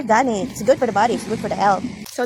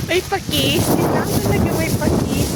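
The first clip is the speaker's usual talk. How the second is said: louder, higher excited exclaim; excited discovery; 6 semitones higher, 5 dB louder than usual. Real, not acted. Vlogger thrilled at finding ferns, loud and high. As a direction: show off the find with glee.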